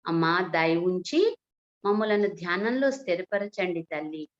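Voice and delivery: measured devotional address, pausing between phrases; lightly formal prayer delivery; spoken prayer. Acted. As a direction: pray reverently to the Mother, phrase by phrase. Leads an opening prayer.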